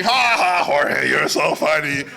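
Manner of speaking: loud imitated "ha, ha"; mock group laughter. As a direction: imitate a room laughing at a joke. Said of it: "So everybody's laughing".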